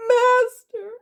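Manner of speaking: high, loud yelp of alarm; startled cry. A narrator's reading. Goblin cook discovers her master behind her, startled yelp. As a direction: yelp it, caught out.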